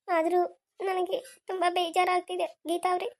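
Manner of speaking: halting, mildly tearful hurt; tearful, upset. Acted. Upset wife confiding in her husband's friend, mildly tearful. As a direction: hold back tears between phrases. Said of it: "ಅಳೋದಕ್ಕೆ ಹೋಗ್ಬೇಡಿ ಮೀನಾ".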